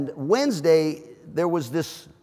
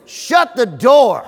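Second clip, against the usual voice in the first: laughing punchline; 3 semitones higher, 6 dB louder, much slower than usual. Retold or imitated. Wife's answer, laughing.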